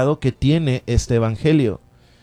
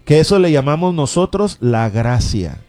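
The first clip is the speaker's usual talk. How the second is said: fervent radio sermon, rising and falling; preaching. Acted. Radio preacher urging listeners to faith, fervent preaching.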